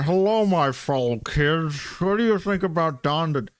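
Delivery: put-on out-of-touch adult voice; hammed-up attempt to sound like one of the youth; fellow-kids act. Streamer greeting the kids as their peer, mock fellow-kid voice.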